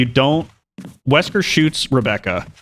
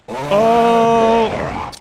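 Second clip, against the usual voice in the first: sudden high yelp of surprise; startled; 11 semitones higher, 3 dB louder than usual. Real, not acted. Gamer jolted by an attack, high startled oh. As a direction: caught off guard, jump up in pitch.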